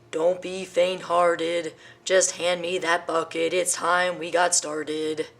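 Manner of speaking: slow, firm elephant; rally the timid friends; brisk elephant. Acted. Elephant rallying his scared friends, slow and firm.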